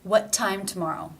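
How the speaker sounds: "What time tomorrow" with true T's starting the last two words; actual T sound. Shown as a demonstration. Teacher showing T beginning a word, real T in "tomorrow". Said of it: "it is the actual T sound".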